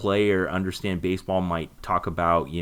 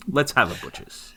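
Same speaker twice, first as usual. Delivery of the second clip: mock Cockney; 5 semitones higher than usual. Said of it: "have a butcher's was one I heard a lot".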